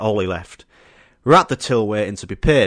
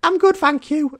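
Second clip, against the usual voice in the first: very high, squeaky polite refusal; shy younger self; 4 dB louder than usual. Retold or imitated. Fourteen-year-old turns down drugs from strangers, shy high voice. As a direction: imitate a shy boy's small, high voice. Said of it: "in my nice, quiet, shy tone".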